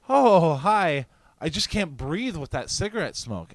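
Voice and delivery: high mock-woman voice, loud greeting first; crazy complaining lady. Woman complaining to smoker's friend, mocking high voice. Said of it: "some fucking crazy bitch lady".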